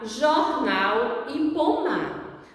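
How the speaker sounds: ordinary talk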